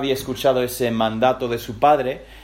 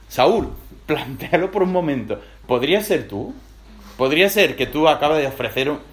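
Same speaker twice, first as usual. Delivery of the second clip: laughing Jonatán; faster than usual. Acted. Jonatán mocks his father.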